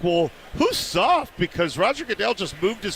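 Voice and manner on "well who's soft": retorting. Retold or imitated. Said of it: "and then I'm like".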